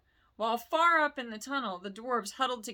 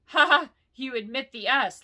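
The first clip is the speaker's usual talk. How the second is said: loud mocking dragon laugh, higher; 4 semitones higher, 7 dB louder than usual. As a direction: burst out laughing at the hobbit. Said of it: "laughing Smaug".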